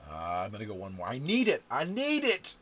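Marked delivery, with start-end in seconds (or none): 1.1-1.6 loud urgent plea; pleading with the dice. Real, not acted. Begging the dice before rolling. 1.7-2.5 higher, louder pleading cry; desperate plea. Real, not acted. Player begging the dice on the last roll, crying out.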